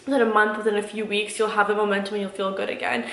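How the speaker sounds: usual speaking voice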